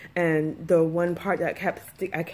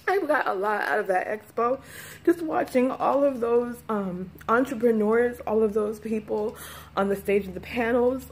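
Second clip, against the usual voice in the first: holding back tears; 3 semitones higher than usual. Real, not acted. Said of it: "Gosh, why am I about to cry?".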